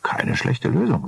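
slow, impressed and respectful. Acted. Architect impressed by the plan, slow and respectful. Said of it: "mit Respekt in der Stimme".

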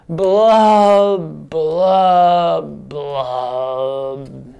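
put-on kids join in blowing fish bubbles; fish blub blubs.

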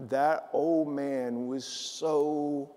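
slow, heavy-hearted, holding back tears; real grief held in, words drawn out; close to tears. Real, not acted. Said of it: "I'm gonna start crying right now".

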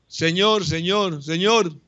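high, pleading calls of a blind beggar; pleading cry. Acted. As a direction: cry out to the Lord for help.

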